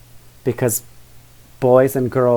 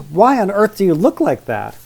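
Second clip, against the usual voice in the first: put-on girl's exclamation; 6 semitones higher than usual. Vivian continues her exclamation.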